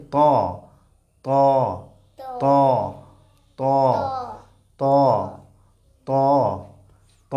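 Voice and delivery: ত with the tongue tip on the upper tooth roots; tongue-tip letter sound. Shown as a demonstration. Teacher drills where the letter is made, tongue-tip sound. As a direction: press the tongue tip behind the top teeth for ত. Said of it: "উপরের দাঁতের গোড়ার সঙ্গে লাগিয়ে".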